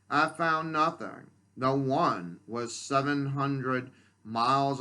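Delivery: earnest recitation of a personal poem; poetry reading. Acted. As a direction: read your own poem aloud, phrase by phrase. Reads own poem aloud.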